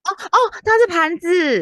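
high, loud surprised oh; realizing with a loud high oh. Real, not acted. Surprised at the answer.

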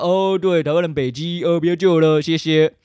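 high, loud, sarcastic dismissal; sarcastic mock of rescue groups giving up; mocking rescuers. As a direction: sneer as fed-up rescue groups.

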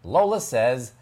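lilting storybook narration with wide pitch swoops; reading to children. Acted. Host reads Charlie's story to children, lilting narration. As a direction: read it as Charlie explaining his little sister, lively and measured.

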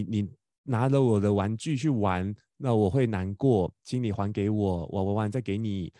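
put-on slow, gentle model sentence for the child; modelling polite words. Shown as a demonstration. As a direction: spell it out slowly so a four-year-old can copy it. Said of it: "希望你好好跟他说".

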